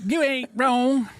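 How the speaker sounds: high, slow drawl on "You ain't wrong"; drawled catchphrase. Acted. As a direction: stretch out the catchphrase. Echoing the catchphrase.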